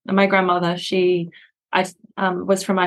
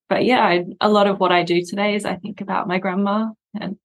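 teary. Real, not acted. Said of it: "She's getting a bit teary thinking about her grandmother".

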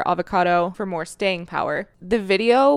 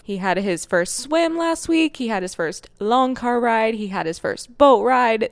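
puppy voice; 2 semitones higher than usual. Real, not acted. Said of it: "I'm already in full dog mom puppy voice mode".

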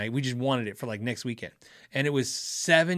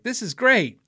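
excited rave; 8 semitones higher, 5 dB louder, slower than usual. Retold or imitated. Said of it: "me and Ralph are like".

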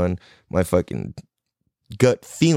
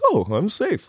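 amused disbelief; 10 semitones higher than usual. Retold or imitated. Mimics own oblivious self.

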